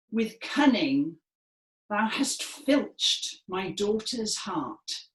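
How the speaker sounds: slow, projected Shakespearean line; projected stage delivery. Shown as a demonstration. Teacher demonstrating the angry father's line to the class, projected stage voice. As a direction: declaim it like an actor on the Stratford stage. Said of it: "in our best Royal Shakespeare Company voices".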